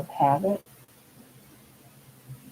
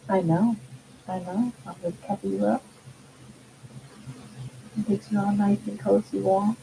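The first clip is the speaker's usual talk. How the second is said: talking to a dog. Real, not acted. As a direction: coo at the little dog. Talking to her pet.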